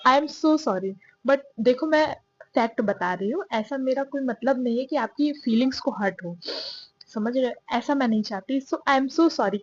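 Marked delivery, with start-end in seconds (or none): 0.1-0.9 apology. Real, not acted. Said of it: "कान पकड़ के". 8.6-9.6 apology. Real, not acted. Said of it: "कान पकड़ के".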